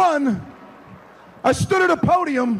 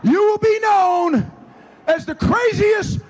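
hyped-up shout; 4 semitones higher than usual. Real, not acted. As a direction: hype up the students. Coach hyping student section.

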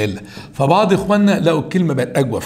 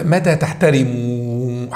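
slow correct reading; much slower than usual. Shown as a demonstration. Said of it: "حذف النون".

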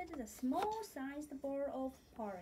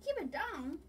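louder, higher sleepy whine; whining Goldilocks; 6 semitones higher, 6 dB louder than usual. Acted. Goldilocks woken by the bears, louder whine. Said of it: "whined Goldilocks".

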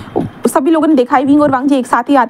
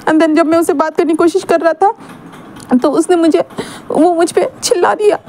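put-on higher, aggrieved young man; hurt young Wing; 3 semitones higher than usual. Wing explaining to his friends, higher and hurt. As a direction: plead your innocence, higher and hurt. Wing's voice held in retelling.

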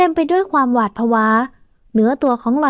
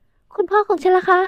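worried about father; 6 semitones higher, slower than usual. A narrator's reading. Heroine fears for father.

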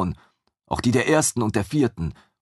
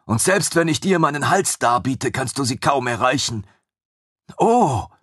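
chained creature, urgent; 5 semitones higher than usual. Acted. Captive creature explaining the shackle to Ragnar, high and urgent. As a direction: press the point high and urgent.

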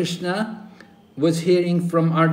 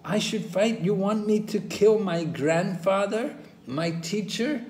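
incredulous Arjuna; 6 semitones higher than usual. Retold or imitated. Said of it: "But Arjuna is saying".

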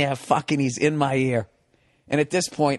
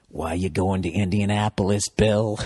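mock-casual drunk question, laughing at the end; laughing mimic; 9 semitones lower than usual. Comedian quotes his drunk seatmate's sudden friendly question, laughing. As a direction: break into a laugh mid-question.

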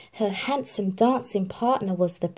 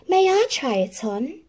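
Cinderella asking; 7 semitones higher, 4 dB louder than usual. Acted. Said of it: "she asked".

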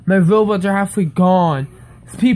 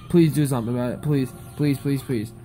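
fading plea; 5 semitones lower, 5 dB quieter, faster than usual. Real, not acted. Begging Roblox, fading.

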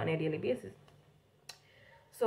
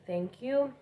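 higher-pitched polite cashier thanks; customer service voice; 5 semitones higher than usual. Shown as a demonstration. Cashier thanking a customer, higher customer service voice. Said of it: "do the customer service voice".

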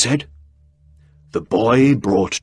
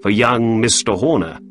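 lightly raised, higher Holmes voice; 3 semitones higher than usual. Acted. Narrator voicing Holmes questioning the innkeeper, lightly higher. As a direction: read Holmes a touch higher than narration.

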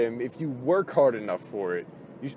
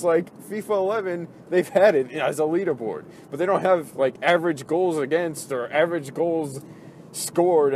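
angry rant. Real, not acted. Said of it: "it's just making me so mad".

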